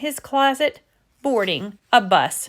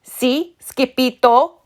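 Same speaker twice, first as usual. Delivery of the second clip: panting; 3 semitones higher, 4 dB louder, slower than usual. Acted. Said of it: "panted Poquito Tito".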